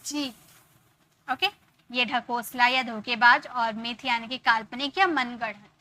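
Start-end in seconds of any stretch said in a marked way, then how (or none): 0.1-1.3 drawn-out teaching words; spelled-out slow example; slow demo. Shown as a demonstration. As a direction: stretch each word slowly. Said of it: "वाई को ई में pronounce".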